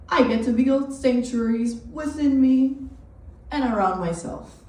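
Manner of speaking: deliberate, dramatic monologue with weighted pauses; spoken-word performance. Acted. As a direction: perform it like a solo stage piece.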